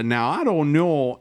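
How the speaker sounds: slow, folksy Southern drawl on "Now, I don't know"; mock Southern country doctor, slowed down; a light Southern twang, imitating Bones; imitating a Southern accent. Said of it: "even a more folksy Southern accent".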